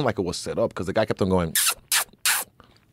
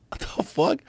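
whispered disbelief; 14 semitones higher, 4 dB quieter than usual. Retold or imitated. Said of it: "looking like".

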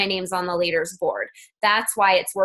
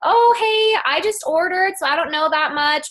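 bubbly greeting; 6 semitones higher than usual. Shown as a demonstration. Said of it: "you'll say".

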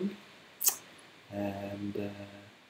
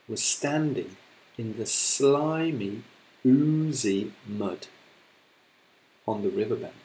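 slow, savouring storybook reading; story narration. A narrator's reading. Teacher reading to her class, slow storytelling voice. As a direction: read it out to the children.

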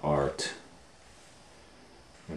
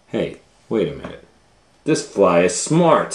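surprised lunch lady; 5 dB louder, faster than usual. Acted. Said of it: "said Roz".

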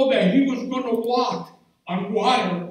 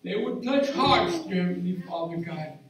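hushed, reverent prayer voice. Acted.

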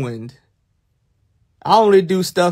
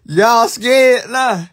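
slow, higher, louder put-on creepy voice; mock spooky voice; 6 semitones higher, 4 dB louder, much slower than usual. Streamer spooking chat in a hammed-up creepy voice. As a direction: ham up a haunted-house host.

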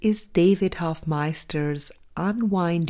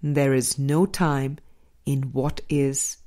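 calm spiritual reading. Acted. David answering the seeker, calm and contemplative. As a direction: settle into a gentle, contemplative answer.

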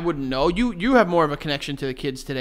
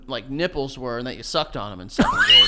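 laughing; 3 semitones lower than usual. Real, not acted. Laughing confession.

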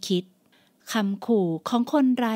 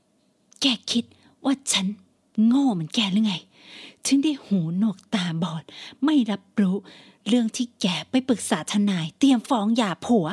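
angry mother. Acted. Mother scolding daughter.

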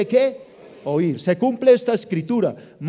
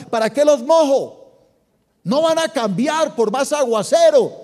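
exasperated God; 6 semitones higher than usual. Retold or imitated. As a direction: toss the question up in weary frustration. God asks Abraham, exasperated.

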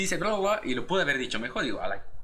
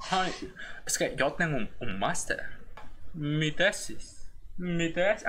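mock snob; 4 dB quieter, slower than usual. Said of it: "los típicos licenciados de la U".

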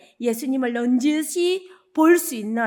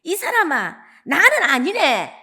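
a firmer, louder no, slowing on the last words; stronger denial; 4 semitones higher, 4 dB louder than usual. Retold or imitated. Peter pushing back at his accuser, mildly louder. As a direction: insist a little harder, hammed up. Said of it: "베드로가 더 강하게".

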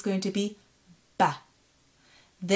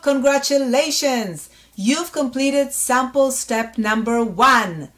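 cheery congratulations; 4 semitones higher, 6 dB louder, slower than usual. Acted. Cheering the learner's completion.

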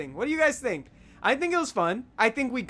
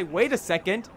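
confused; 3 semitones higher, 5 dB louder than usual. Retold or imitated. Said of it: "I would recollect all this in my dream and say".

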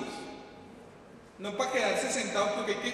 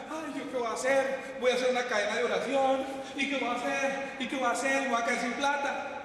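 mock panic; 3 semitones higher than usual. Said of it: "y que empieza".

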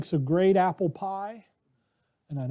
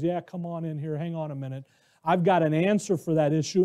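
Lucifer tempting; 3 semitones lower, 6 dB quieter, faster than usual. Acted.

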